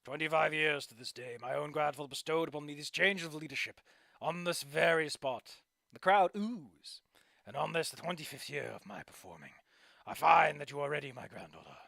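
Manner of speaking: measured ceremonial address to the crowd; lightly voiced grand old showman. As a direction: hand over the leadership with pride. Old performer speaks to crowd.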